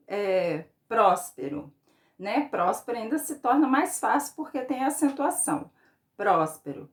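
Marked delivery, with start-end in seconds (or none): 0.9-1.7 "próspero" with the first syllable "prós" strong, the rest falling; stress on PRÓS. Shown as a demonstration. Teacher shows pupils the tonic syllable, "prós" stressed in "próspero". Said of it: "Qual a sílaba que eu falei mais forte?". 6.1-6.9 "Próspero" lower, weight on the opening "Prós"; stress on PRÓS. Shown as a demonstration. Teacher repeats the example for pupils, "Prós" stressed in "Próspero". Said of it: "Qual a sílaba que eu falei mais forte?".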